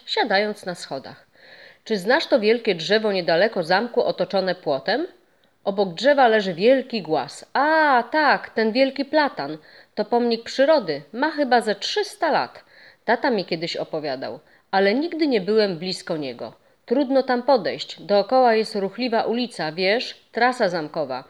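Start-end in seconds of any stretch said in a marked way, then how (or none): 1.8-7.4 a hint of a sly old ghost, a little louder; lightly voiced friendly ghost. Ghost hinting at a secret to the boy, lightly voiced. 7.5-21.2 put-on higher, bright young boy showing what he knows; proud little know-it-all; eager boy. Boy explaining the old tree to the ghost, eager and young.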